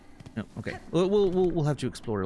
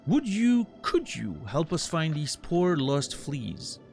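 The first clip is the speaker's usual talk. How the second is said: higher, theatrical flea showman; grandiose flea circus showman; 4 semitones higher than usual. Acted. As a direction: plead like a grand ringmaster. Voices flea master dialogue.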